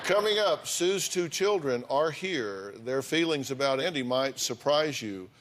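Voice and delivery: upbeat host tease into the break; TV show tease. Acted. Host teasing the audience before a break, upbeat. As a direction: hook the audience before the commercial.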